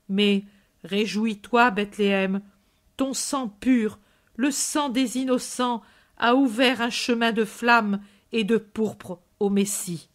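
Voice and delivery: grave, measured preacher voice mourning the dead; lightly voiced Jesus, sorrowful prophet; solemn prophetic lament. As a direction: mourn with the mothers, then rise in hope. Jesus's long lament speech.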